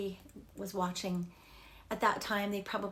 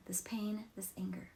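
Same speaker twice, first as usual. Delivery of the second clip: whispered; 6 dB quieter than usual. Shown as a demonstration. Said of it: "you just say something like".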